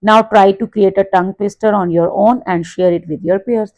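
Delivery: reading the instruction out slowly and clearly; teacher reads the book line aloud to the class, slow and careful; slow textbook read. Acted. Class ko instruction dheere dheere padhkar sunati teacher, saaf aur dheemi.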